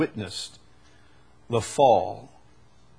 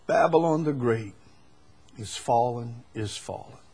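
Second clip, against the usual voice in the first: softer and lower, fading away; quiet restatement; 5 semitones lower, 6 dB quieter than usual. Shown as a demonstration. Preacher repeating the angel's words to the church, hushed and fading. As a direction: say it again almost to yourself. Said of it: "So this is not a whisper".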